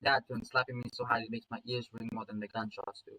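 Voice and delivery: understated first-person storytelling; story narration. A narrator's reading. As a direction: read the action like an audiobook.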